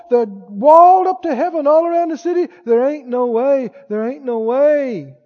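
mildly mock-whining doubters, pitch lifted; hand-wringing excuse-makers giving up; fearful spies. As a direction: play the defeated scouts with a light touch. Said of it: "they came back and they said".

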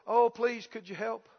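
quiet, meek begging for help; soft, pleading mock beggar; fawning plea. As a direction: imitate a cowering beggar. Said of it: "they fall down and they go".

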